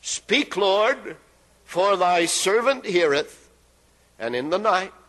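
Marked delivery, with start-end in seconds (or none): 0.0-3.5 humble reply. Retold or imitated. Eli teaching Samuel how to answer, reverent. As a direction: say it as an obedient servant. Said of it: "this is what you're supposed to say".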